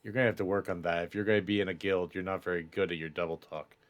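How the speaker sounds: quick, low, quiet aside; critical guild member. Acted. Guild member advises Reed before walking off, low quick reproof. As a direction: drop the voice and rattle off the criticism. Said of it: "Reed, and goes".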